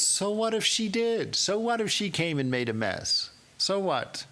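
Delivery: high, ringing so what, dismissing the worry; emphatic so what. Acted. Holy Mother to the young woman, high ringing so what. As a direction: brush the worry aside, loud and high.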